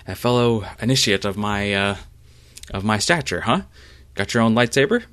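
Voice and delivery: a smug rival sizing him up; Rune. Acted. GM voices Rune challenging Jaden.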